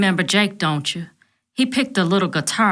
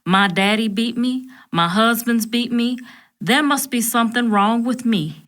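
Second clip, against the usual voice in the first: slower in places, a touch of sobbing; understated crying through a slow drawl; mild tearful drawl; 8 semitones higher than usual. Acted. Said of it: "an even slower drawl".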